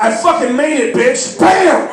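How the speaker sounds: high, loud victorious yell; triumphant boast. Retold or imitated. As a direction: crow it to your friends. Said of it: "I called my friends ... and I went".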